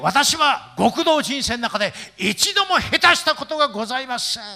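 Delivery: cool yakuza boss, slow and drawn out; mock tough-guy film star declaration; Ken Takakura. Yakuza boss boasts to the pastor, cool film-star impression. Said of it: "高倉健っていう感じですよ".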